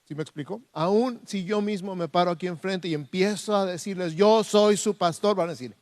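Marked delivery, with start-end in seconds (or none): 4.1-5.3 high, slow, emphatic announcement; self-proclaiming declaration. Acted. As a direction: proclaim your title to the congregation. Acting out a self-important declaration. (proclamación enfática, aguda y pausada)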